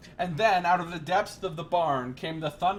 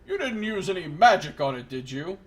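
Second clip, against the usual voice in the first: lightly louder suspicious probe; suspicious prince; 4 dB louder than usual. Acted. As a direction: narrow the eyes and probe. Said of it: "his eyes narrowed".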